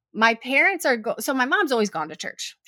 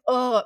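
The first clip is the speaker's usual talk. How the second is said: re-enacted groan of annoyance; annoyed groan. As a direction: let out a mild, exasperated ugh. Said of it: "can't quite hide all my annoyance".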